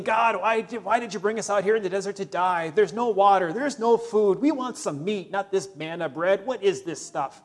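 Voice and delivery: mock whiny complaining to God; grumbling Israelites. Preacher voicing Israelites complaining in the desert, whiny. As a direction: whine like a grumbling desert wanderer. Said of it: "grumbling and complaining".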